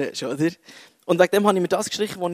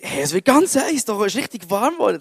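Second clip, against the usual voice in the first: retold amazement; 4 semitones higher than usual. Retold surprise at warming hand.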